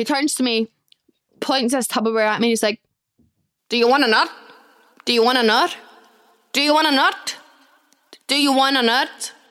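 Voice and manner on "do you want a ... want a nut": clumsy, badly done put-on Australian accent. Retelling what an Australian man with Tupperware said, in a bad Australian accent. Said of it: "he was Australian and I can't really do Australian accents".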